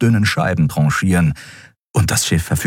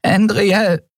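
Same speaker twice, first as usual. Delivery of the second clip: higher, throat tight with fear; choked with fear; 13 semitones higher than usual. A narrator's reading. Nelen calls to Endriel in panic, choked. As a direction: squeeze her name out in fear. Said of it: "mit zugeschnürter Kehle".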